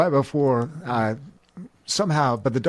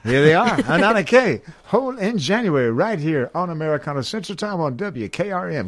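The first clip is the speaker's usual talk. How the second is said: lifted, higher-pitched song introduction; radio announcer; 3 semitones higher than usual. Acted. Host introducing a band on Americana radio, announcer style. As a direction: present the band with showy station-ID flourish.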